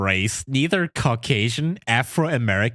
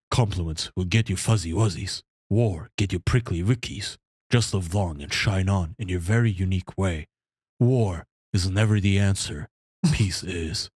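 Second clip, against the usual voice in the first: Bear voice; 7 semitones lower than usual. Acted. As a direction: lower big gentle giant voice. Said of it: "uh, Bear voice instead?".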